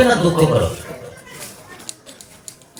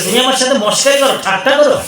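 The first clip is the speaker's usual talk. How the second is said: higher, indignant retort; angry Parvati; 5 semitones higher than usual. Acted. Parvati angrily accuses Shiva of teasing her, higher and indignant. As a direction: bristle at being mocked. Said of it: "Parvati একদম রেগে গেছে".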